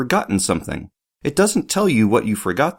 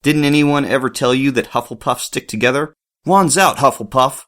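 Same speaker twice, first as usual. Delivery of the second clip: rallying call; 2 semitones higher than usual. Acted. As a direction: rouse the house to stand together. Ernie rallying his house.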